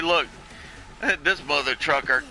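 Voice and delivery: hammed-up, badly faked New York accent; poor New York accent. Agent gripes about the pig caller, poor New York accent. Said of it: "that's a very poor New York accent".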